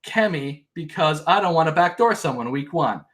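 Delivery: high, put-on whiny voice mocking her; mocking Christy. Recapping Big Brother, mocking Christy's complaint in a high whine. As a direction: parody her indignant complaint. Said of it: "she says".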